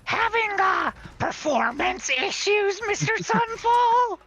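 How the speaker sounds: high, slow mocking draconic voice; dragon voice. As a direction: taunt slowly like a dragon. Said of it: "she goes in her draconic voice".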